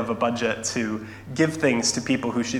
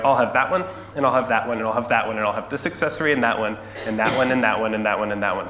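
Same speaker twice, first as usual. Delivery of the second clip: mock demanding little girl, piling up wants; greedy child's list; much faster than usual. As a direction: rattle off demands in a run-on list. Spoiled child pointing at everything in shop.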